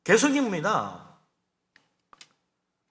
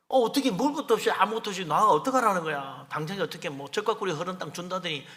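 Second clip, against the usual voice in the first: imitated outpouring of grievance; mock complaining. Hungry Israelites protest to their leader, complaining. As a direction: grumble lightly in one long run. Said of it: "원망을 막 쏟아부어요".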